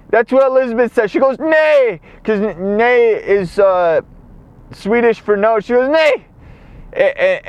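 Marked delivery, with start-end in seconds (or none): 1.4-2.0 high mock yelp of refusal; retold cry of alarm, pitched up; imitated panicked cry. Scared cry as water threatens. 5.9-6.3 high mock yelp of refusal; retold cry of alarm, pitched up; imitated panicked cry. Scared cry as water threatens.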